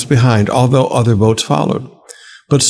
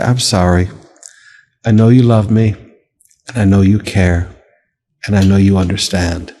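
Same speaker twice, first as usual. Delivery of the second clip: humble prayer; 5 semitones lower than usual. Shown as a demonstration. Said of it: "Come to him and just say".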